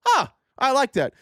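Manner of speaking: high, pleased approving voice; charmed voter, a touch hammed up; mock charmed voter. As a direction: sound won over. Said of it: "people go".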